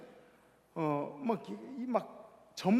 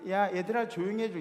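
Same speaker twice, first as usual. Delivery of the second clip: gentle request. Shown as a demonstration. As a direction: ask nicely, calm and even. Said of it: "이게 아니라". (부드럽게 부탁하듯)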